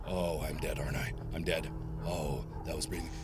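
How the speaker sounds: very quiet, scared murmur; terrified whisper. Real, not acted. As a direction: hush it, sure you're caught. Hushed fear, expecting death.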